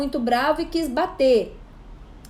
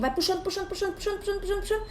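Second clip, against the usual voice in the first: higher and much softer, stretched out; drawn-out breathing cue; 5 semitones higher, 8 dB quieter, much faster than usual. Shown as a demonstration. A mother teaching her son to breathe in, soft and coaxing. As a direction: coax a slow inhale, softly. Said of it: "você vai fazer assim, ó".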